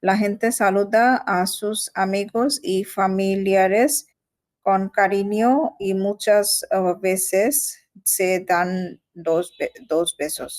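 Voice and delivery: slow, careful learner's reading; halting reading aloud. Real, not acted. Learner reading Spanish text to tutor, slow halting reading. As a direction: read word by word, with stumbles and restarts.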